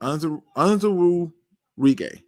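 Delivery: "Onwuzurike" very slow, with a restart midway; careful name attempt. Real, not acted. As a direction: sound out "Onwuzurike" haltingly. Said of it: "I hope I said that right".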